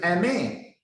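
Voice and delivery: Amen said ah-men, rising then falling; pronounced Amen. Shown as a demonstration. Teacher answers how faithful is pronounced, ah-men. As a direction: say Amen with an open ah. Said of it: "how this word pronounced".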